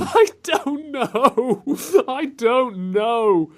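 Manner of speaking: laughing. Real, not acted. Laughing mock Jamaican voice.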